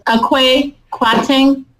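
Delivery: "Akwe Kwateng" said slowly, name by name; careful name pronunciation. Shown as a demonstration. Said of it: "What's the correct pronunciation?".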